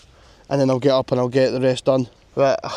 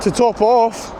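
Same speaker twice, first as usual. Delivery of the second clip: exhausted; 6 semitones higher, slower than usual. Real, not acted. Exhausted progress report.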